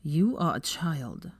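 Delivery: in disbelief. A narrator's reading. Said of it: "he said in disbelief".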